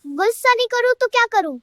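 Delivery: mildly heated comeback; a touch of exasperation; angry retort. Acted. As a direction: act an indignant wife snapping back. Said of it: "क्यों गुस्सा हो रही हो".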